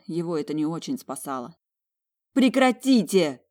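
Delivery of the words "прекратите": high, loud desperate shout; slow, high, loud cry to stop them. Acted. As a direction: scream it to stop the fight. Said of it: "закричала я".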